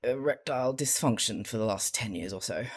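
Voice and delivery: understated, reluctant confession; subdued, sheepish admission; mortified admission. Acted. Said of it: "Crowley wanted to crawl under the table and die".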